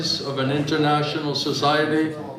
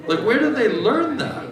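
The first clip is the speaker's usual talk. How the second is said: laughing; 9 semitones higher than usual. Real, not acted. Amused rhetorical question.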